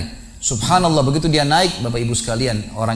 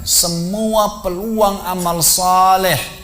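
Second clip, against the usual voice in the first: regretful urging; 3 semitones higher, slower than usual. Acted. Preacher urging regret over wasted deeds.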